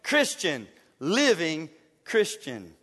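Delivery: slow, hint of a suave spy; drawn out like a cool agent; Bond-style self intro. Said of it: "look in the mirror and say".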